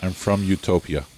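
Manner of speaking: put-on game master's Greek-accented woman; measured line in a Greek accent. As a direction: introduce yourself with a Greek accent. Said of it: "in a very heavy, uh, Greek accent".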